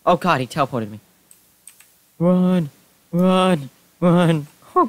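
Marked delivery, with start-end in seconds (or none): 2.2-4.9 raised, louder cries to flee; panicked urging. Real, not acted. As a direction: call it out high, in alarm. Fleeing creepers in the game.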